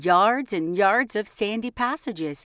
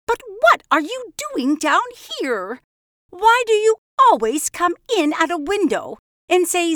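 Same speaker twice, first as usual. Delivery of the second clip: higher, louder prim scolding; cross mouse; 8 semitones higher, 7 dB louder than usual. Acted. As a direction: tell off the bee sharply. Mrs Tittlemouse scolds the bee.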